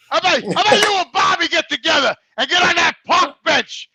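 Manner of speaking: roast your buddy with a fake yell; mock angry rant.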